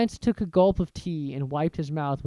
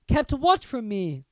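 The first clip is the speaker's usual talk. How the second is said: eagerly; 7 semitones higher, 4 dB louder than usual. Acted. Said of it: "said Harry eagerly".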